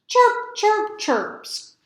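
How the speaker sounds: high chick chirps fading to a breath; squeaking chicks. Acted. Baby chicks squeaking from the nest, high and tiny. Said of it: "squeaked the chicks".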